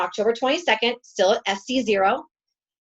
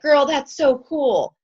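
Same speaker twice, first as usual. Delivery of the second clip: higher, louder, drawn-out gushing; encouraging friend; 6 semitones higher, 5 dB louder, slower than usual. Retold or imitated. Coach imitates teammate praising her video, gushing encouragement. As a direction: imitate a friend being nice, slow and raised. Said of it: "She was just trying to be nice".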